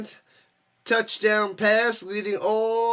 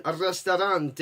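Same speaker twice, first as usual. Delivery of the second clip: "restaurante" with an Italian-style ending; Italian-style pronunciation; slower than usual. Pretend. Streamer naming the Mexican place to viewers, playful Italian accent. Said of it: "I don't know why I said it Italian".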